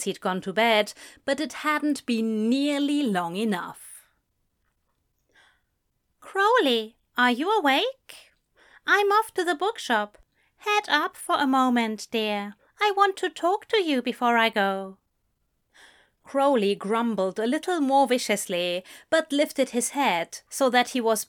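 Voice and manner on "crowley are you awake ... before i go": higher, coaxing character voice; Aziraphale waking partner. A narrator's reading. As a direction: gently rouse a sleepy partner, pitched up.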